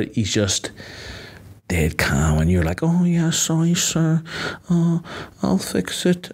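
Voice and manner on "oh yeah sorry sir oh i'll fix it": much higher, timid yes-sir voice; meek placid apology. Retold or imitated. Pushover employee apologising to his boss, much higher meek voice. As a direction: cave in like a pushover. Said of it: "and you're just placid".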